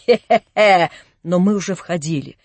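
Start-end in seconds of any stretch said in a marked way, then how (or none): 0.0-0.9 vile mocking cackle; nasty laugh. A narrator's reading. Prince mocks Natasha with a loud vile cackle. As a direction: laugh at her with contempt. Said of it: "отвратительный хохот его".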